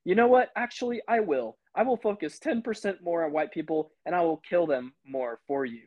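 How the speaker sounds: high-pitched declaration easing down; emphatic mock resolve. Peacemaker makes the janitor a promise, mock resolute. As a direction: act out a sudden earnest vow. Retold comeback, accused man gives in.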